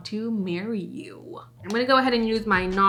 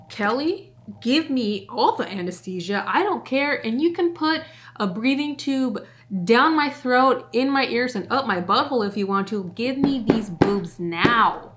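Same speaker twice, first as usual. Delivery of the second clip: a touch of giddy pleading, rising and louder; half-mock begging to be put under now; excited plea; 2 semitones higher, 4 dB louder than usual. To Kelly, asking for the boobs, mock-excited plea. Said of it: "Like, I was so excited".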